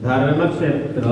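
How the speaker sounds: ধর্মক্ষেত্র slow, every letter sounded; Sanskrit pronunciation. Shown as a demonstration. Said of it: "সংস্কৃতে উচ্চারণ". (সংস্কৃত উচ্চারণে ধর্মক্ষেত্র)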